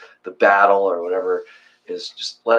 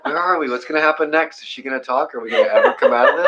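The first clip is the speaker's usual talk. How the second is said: higher, giggly inner worrying; laughing; 6 semitones higher, faster than usual. Retold or imitated. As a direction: laugh through the anxious questions. Mocking own impatient thoughts.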